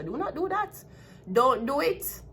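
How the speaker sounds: high-pitched stern warning; sharp scolding. Real, not acted. Scolding the woman directly.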